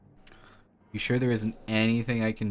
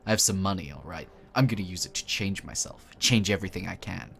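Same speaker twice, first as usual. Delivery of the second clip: lightly voiced teen, louder and set; determined mutant boy; 3 dB louder than usual. Mutant boy telling the stranger he'll change himself, lightly determined. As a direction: insist on changing yourself.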